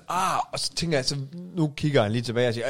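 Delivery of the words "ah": højere "ah", uden fuld styrke; demonstreret smerteråb. Retold or imitated. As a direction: efterlign dit eget smerteråb. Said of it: "jeg råber sådan". (dæmpet smerteråb)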